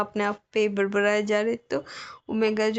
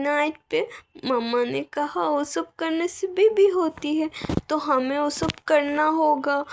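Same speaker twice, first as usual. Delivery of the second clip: innocent bride; 3 semitones higher than usual. Acted. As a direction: say it like a timid child quoting mom. Omega explains wedding night. (मासूम, ऊँची आवाज़ में डरी हुई दुल्हन)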